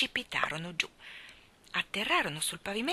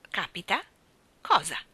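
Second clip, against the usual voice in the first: brusque; 3 dB louder than usual. Acted. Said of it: "disse Mary Poppins brusca".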